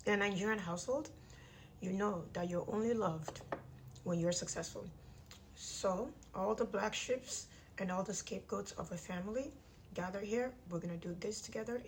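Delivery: talking through clenched teeth; jaw wired shut. Real, not acted. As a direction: speak with teeth wired together. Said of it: "My jaw is wired shut".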